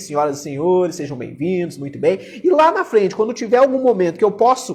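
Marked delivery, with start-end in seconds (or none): 0.0-2.2 calm, tranquil, settled, even delivery. Opening a talk to ladies and gentlemen, as speaking advice: calm tone. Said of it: "começar com um tom é, calmo. Comecei aqui".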